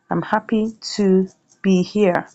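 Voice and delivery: slow, spaced-out reading while typing; slow dictation. Shown as a demonstration. Presenter reads out the sentence being typed, slowly. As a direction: say it slowly, phrase by phrase.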